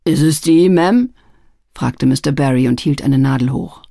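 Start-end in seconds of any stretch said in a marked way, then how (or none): 0.0-1.1 rough man's voice. A narrator's reading. Barry holding up pin.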